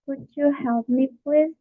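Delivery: polite request, lifting lightly on "please"; polite and friendly. Shown as a demonstration. Teacher giving an example request, polite and friendly. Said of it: "it's polite and friendly".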